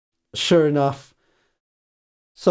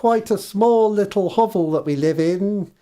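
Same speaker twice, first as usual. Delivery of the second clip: refusing housewife; 4 semitones higher than usual. Acted. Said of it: "she says".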